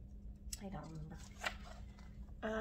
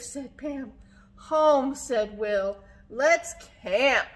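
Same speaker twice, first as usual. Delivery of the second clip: put-on story reading to children; 7 dB louder, much slower than usual. A narrator's reading. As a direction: punch the cries, then let the names settle. Reads a story aloud.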